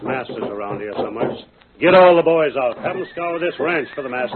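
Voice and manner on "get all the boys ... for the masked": louder and higher command; barked order. Acted. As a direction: rouse the whole ranch. Boss orders a ranch search.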